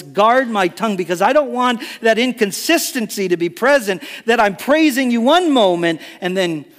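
earnest plea, climbing in pitch; retold prayer. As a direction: build from measured prayer to insistent pleading. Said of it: "I was praying".

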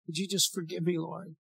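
soft, hushed plea to the Lord; modeling a private prayer, softly; quiet prayer. Shown as a demonstration. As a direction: pray it under your breath. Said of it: "in the quietness of your heart".

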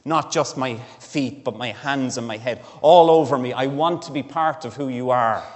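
building to a loud "all over me", then settling; eager devotion swelling to a cry; enthusiastic. Retold or imitated. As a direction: Peter pleading to belong to Jesus, building excitement. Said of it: "with enthusiasm and affection for Jesus".

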